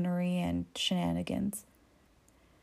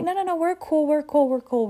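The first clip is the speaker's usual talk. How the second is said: higher, hasty placating voice; mock-innocent guys backing off; hands-up, we're cool plea; nervous backpedaling; 7 semitones higher than usual.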